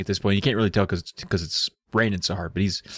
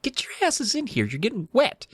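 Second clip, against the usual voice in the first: higher-pitched, insistent character voice; 5 semitones higher than usual. Retold or imitated. Terry ordering the kids into the cave, insistent. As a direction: pitch up high, then ease down while insisting. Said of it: "Terry insists".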